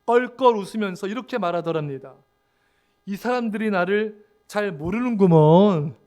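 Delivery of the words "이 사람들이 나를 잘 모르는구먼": slow, drawn-out Korean dialect; Korean regional dialect. Retold or imitated. Moody answers a newspaper article about himself, in Korean dialect. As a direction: stretch the ending in folksy Korean dialect. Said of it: "사투리 안 썼을 거예요".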